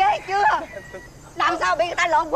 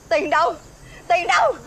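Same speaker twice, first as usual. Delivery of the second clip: angry demand. Acted. Mother scolding son over money.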